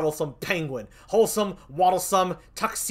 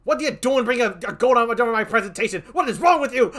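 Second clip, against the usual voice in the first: mock outrage; 4 semitones higher, 5 dB louder than usual. Mock outrage at goat picture.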